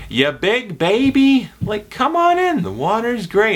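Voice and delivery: put-on high, slow, loud kid's teasing call; high, drawn-out coaxing shout; Iron Giant quote. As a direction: tease a friend into the lake. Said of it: "like the Iron Giant".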